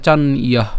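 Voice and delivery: চান ইয়ঃ ending in a breath "h"; visarga pronunciation. Shown as a demonstration. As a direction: split চান ইয়ঃ as "chan-iyah". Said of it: "বিসর্গ আছে". (চান ইয়ঃ, শেষে বিসর্গ)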